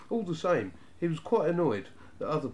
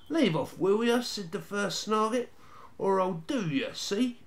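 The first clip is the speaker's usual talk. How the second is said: threatening Snarget; 7 semitones higher than usual. A narrator's reading. First Snarget threatens brother.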